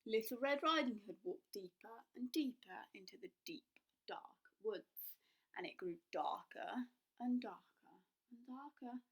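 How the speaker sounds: whispered, hushed storytelling; spooky narration. A narrator's reading. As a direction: draw them into the dark woods.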